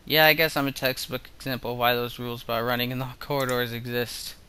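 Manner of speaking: understated, dry character line. Acted. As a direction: deliver it drily, without emphasis. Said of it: "a lot more dry than I had intended".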